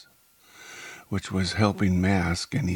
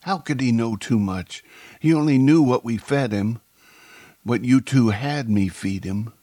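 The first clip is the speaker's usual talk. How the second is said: indignant, raised-voice challenge; angry; 5 semitones higher, 6 dB louder than usual. A narrator's reading. Woman challenges her accomplices' excuse, angry. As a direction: push back in moderate anger. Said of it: "Monica said angrily".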